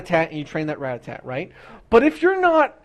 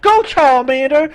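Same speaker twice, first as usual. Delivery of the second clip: battle call; 7 semitones higher, 7 dB louder, slower than usual. Retold or imitated. Trainer calling out in battle.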